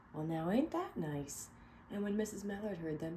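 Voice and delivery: clear, expressive read-aloud narration; storybook reading. Acted. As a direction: read it to a room of kids. Reading picture book aloud.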